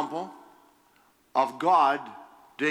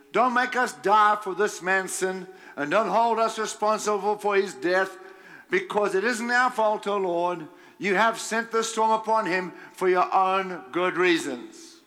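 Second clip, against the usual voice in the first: pitched-up earnest plea; pleading; 4 semitones higher than usual. Acted. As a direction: beg for mercy. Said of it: "they pleaded".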